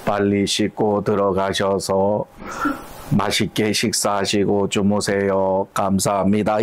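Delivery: slow, lightly sweetened voice of a dutiful wife; a mild Kim Hye-su coo; sweet wife voice. Pretend. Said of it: "김혜수 목소리로".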